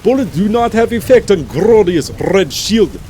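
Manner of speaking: thick, hammed-up fake Russian accent; terrible Russian accent. Gamer reading a fan's loadout description, bad Russian accent. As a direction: read it like a bad Russian soldier. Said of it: "read with my terrible, thick, awfully Russian accent".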